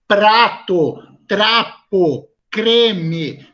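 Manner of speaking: "Prato, trapo, creme" carefully articulated, one by one; every consonant pronounced. Shown as a demonstration. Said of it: "eu pronuncio todos os sons". ("Prato, trapo, creme" pronunciando bem as duas consoantes)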